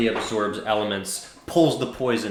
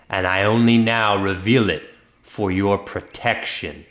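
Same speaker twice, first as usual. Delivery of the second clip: menacing threat; 4 dB louder than usual. Acted. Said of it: "glare at you and say".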